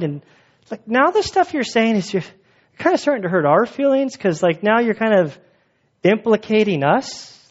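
mock-offended, halting protest; hesitant objection. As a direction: object awkwardly, feelings a little hurt. Voices offended lawyer objecting to Jesus.

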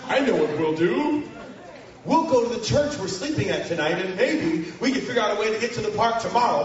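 a hint of the clueless pastor; youth pastor voice. Youth pastor calmly suggesting they wait a day. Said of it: "stupid new youth pastor".

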